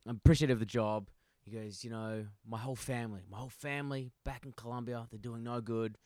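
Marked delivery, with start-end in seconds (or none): 0.1-1.1 quick line in a lightly put-on Colombian accent. Colombian worker grateful to his supervisor, Colombian accent. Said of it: "started doing an accent". 1.8-6.0 soft, lightly voiced Colombian accent; earnest imitation with a hint of Colombian accent. Colombian worker explaining his family's troubles, Colombian accent. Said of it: "started doing an accent".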